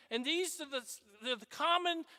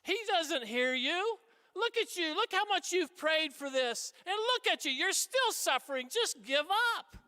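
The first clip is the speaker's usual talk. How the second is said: taunting inner voice; 3 semitones higher than usual. Retold or imitated. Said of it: "voices in our heads that say".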